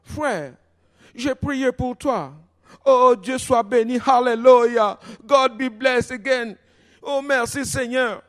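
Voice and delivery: put-on high, drawn-out American-accented French; American English accent. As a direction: praise God as an American woman speaking French. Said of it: "avec un accent anglais américain".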